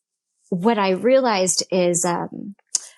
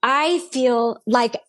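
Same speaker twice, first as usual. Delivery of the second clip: angry pleading; 3 semitones higher than usual. Retold or imitated. Woman retells demanding answers from God on her birthday, angry pleading. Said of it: "I am so angry. I'm so mad".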